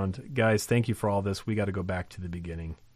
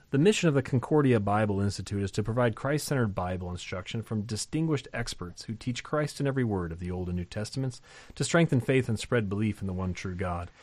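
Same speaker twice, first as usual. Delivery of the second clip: brisk sign-off announcement; fast, practised closing spiel; podcast promo read; faster than usual. Acted. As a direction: rattle through the institute plug quickly.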